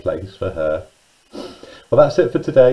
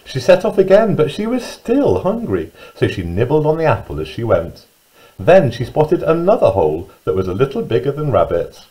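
put-on lively, singsong storyteller reading to young children; children's story narration; 3 semitones higher than usual. A narrator's reading. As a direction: read it with big pitch swoops on key words.

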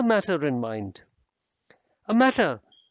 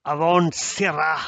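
angry dismissal; 5 dB louder than usual. Acted. Lord dismisses the servant.

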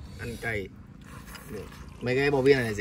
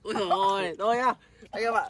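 laughing; 7 semitones higher than usual. Real, not acted. Giggly sign-off after embarrassing moment.

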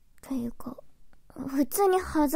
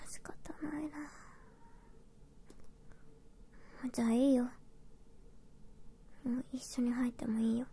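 whispering; 11 dB quieter, faster than usual. Acted. Whispers most lines.

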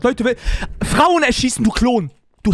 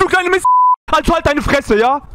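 loud, higher angry shouting at the cop; yelling; 5 semitones higher, 4 dB louder than usual. Acted. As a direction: shout him down in fury. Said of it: "da müssen Sie jetzt nicht so rumschreien". (wütend den Polizisten anschreien)

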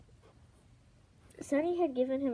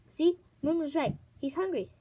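higher, louder triumphant cry; excited; 5 semitones higher, 5 dB louder than usual. A narrator's reading. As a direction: crow it with delight. Kinkajou triumphant about the scavenger.

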